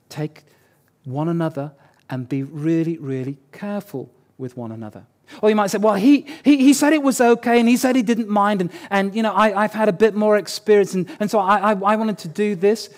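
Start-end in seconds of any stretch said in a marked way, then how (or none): 5.8-12.9 raised, stumbling mock justification; defensive excuses. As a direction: play someone protesting that it was all fine. Acts out the other person's excuses.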